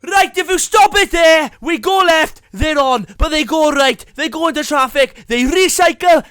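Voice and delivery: loud excited play-by-play; rugby commentary. Acted. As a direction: call the try.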